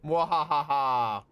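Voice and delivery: mad scientist. Pretend. Villain laugh over gas.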